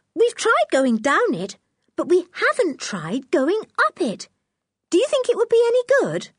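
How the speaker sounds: put-on a small girl with a sudden idea; Anne, little girl. A narrator's reading. Little sister suggesting they go up the stream, eager. Anne's voice.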